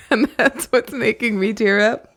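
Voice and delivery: laughing at herself, slowed down. Real, not acted. Reader laughing about tearing up, amused. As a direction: laugh through the question.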